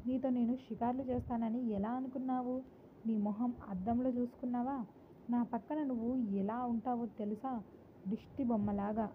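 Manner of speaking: mildly irritated and scornful. A narrator's reading. Wife mocking her husband's looks, a touch of scorn. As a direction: sneer at him, understated. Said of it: "Harika చిరాకుగా".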